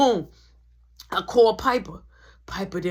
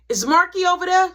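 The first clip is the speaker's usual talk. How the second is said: mom on the phone; 9 semitones higher, 8 dB louder than usual. Retold or imitated. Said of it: "Straight like that".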